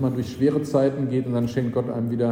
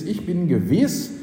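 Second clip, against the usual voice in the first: slow, raised-pitch declaration; emphatic, assured quotation; certain; 5 semitones higher, slower than usual. Retold or imitated. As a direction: state it slowly with firm assurance. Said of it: "sondern er sagt ganz gewiss".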